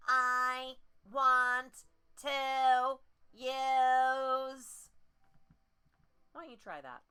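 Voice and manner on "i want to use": tight throat, high and very slow; pinched nasal voice. Shown as a demonstration. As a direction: snap into a squeezed nasal sound.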